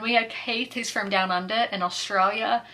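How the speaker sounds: lightly put-on Aussie accent; a touch of mock Australian in the vowels; playful Australian accent. Vlogger introducing Keith from down under, playful Australian accent. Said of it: "still doing the Australian accent".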